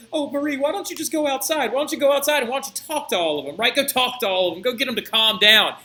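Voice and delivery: high, fast pleading whine; whiny king. Retold or imitated. Cowardly king begging his wife to go outside, high whine. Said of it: "the pansy that he is".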